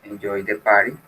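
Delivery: "party" with a light tap in place of the T; silent T in party. Shown as a demonstration. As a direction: say "party" with the T nearly dropped, like "pari". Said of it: "prácticamente la T sería muda".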